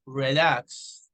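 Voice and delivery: "relax" with LAX held longer; slow "relax", weight on the final syllable; stress on second syllable. Shown as a demonstration. Teacher giving an example of word stress, LAX stressed. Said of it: "and at a higher pitch".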